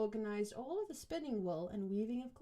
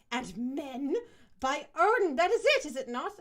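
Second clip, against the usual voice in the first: mocking accusation; 5 dB louder than usual. Hilda mocking the women.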